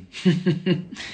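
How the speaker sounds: short, soft chuckle. Acted. Detective reveals the government was involved, soft knowing chuckle. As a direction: chuckle knowingly to yourself, softly.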